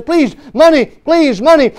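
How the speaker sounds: mock beggar calling to passers-by; street beggar. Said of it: "A beggar stands on the street corner".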